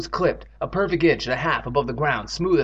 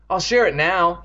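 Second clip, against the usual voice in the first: higher, eager offer; 4 semitones higher, 4 dB louder than usual. Acted. Evan eagerly offers Andy the bucket, eager. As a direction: jump at the chance to share. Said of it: "he said eagerly".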